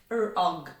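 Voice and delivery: Frog with a quick, short f. Shown as a demonstration. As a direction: say Frog without dwelling on the f. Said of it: "See how fast it is?".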